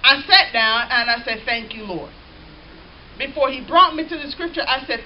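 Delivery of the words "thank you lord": much softer, low grateful murmur; hushed thanks. Retold or imitated. Preacher recalling thanking the Lord, hushed. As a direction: breathe a quiet thank you. His own gratitude recalled.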